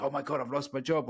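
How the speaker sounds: a hint of a worried whine; mock panic. The anxious nice guy over a lost job, mild mock panic. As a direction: act out the nice guy's worry, lightly. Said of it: "They worry, worry, worry, panic".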